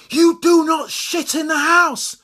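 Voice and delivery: high, loud and slow, each word hammered; angry scolding shout. Acted. Owner yelling house rule at Labrador, angry. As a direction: lay down the law to the dog.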